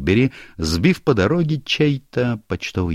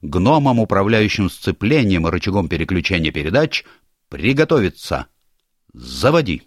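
gnome commander. Acted. Gnome leader gives commands.

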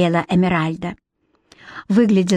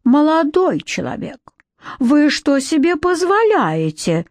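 affronted scolding; 7 semitones higher than usual. A narrator's reading. Council fairy rebuking a cheeky boy, affronted. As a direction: scold him in high affront.

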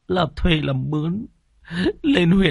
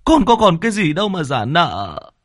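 higher, tearful pleading; whimpering plea; 10 semitones higher than usual. Acted. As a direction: beg the landlord near tears. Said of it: "Anh Khoai mếu máo". (mếu máo van xin)

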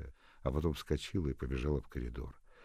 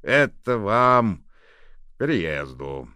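slow, loud, embarrassed; shy gruff man; 7 semitones higher, 12 dB louder, slower than usual. A narrator's reading. Fedot giving the gift, embarrassed. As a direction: mumble it out shyly. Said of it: "Федот засмущался".

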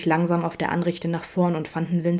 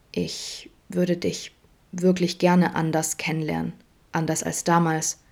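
pressed out. Acted. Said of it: "presste Vincent mutig hervor".

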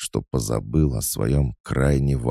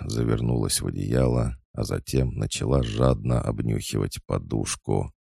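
usual speaking voice

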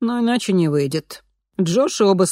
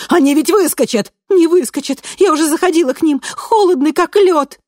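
much higher, louder frantic cries; 12 semitones higher, 9 dB louder than usual. A narrator's reading. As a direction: shout over each other in alarm. Frantic exchange at the cage. (в панике, гораздо выше и громче)

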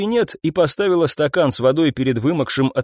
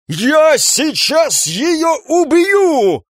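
high, very slow roar; furious slow shout; 4 dB louder, much slower than usual. Acted. Captain lunging across the desk, slow furious shout. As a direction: threaten in rage. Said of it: "потянулся он через стол".

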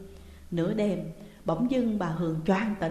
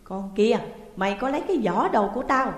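louder, furious scolding of the maid; shrill shrieking accusation; 4 semitones higher, 5 dB louder than usual. A narrator's reading. Landlady screeching at the maid over her missing bag. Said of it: "bà tru tréo nhắm vào Sáu Chi".

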